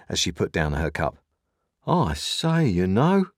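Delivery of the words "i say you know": muttering Joe. A narrator's reading. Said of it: "muttered Joe".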